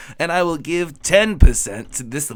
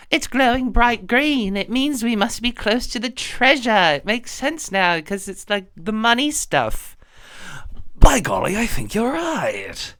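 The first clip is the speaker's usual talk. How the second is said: put-on wholesome 1950s kid; 6 semitones higher than usual. Child character.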